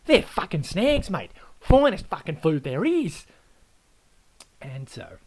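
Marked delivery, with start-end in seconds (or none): 0.0-3.2 loud, higher Aussie declaration; proud Aussie boast. Acted. Adam tells the Pom what snags are, loud and proud. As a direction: proclaim it like gospel.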